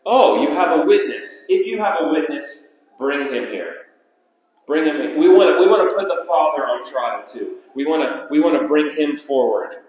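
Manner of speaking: a touch of haughty demand; arrogant accusers. Acted. Pharisees demanding the witness be brought to trial, mildly arrogant. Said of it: "What arrogance, what, what pride".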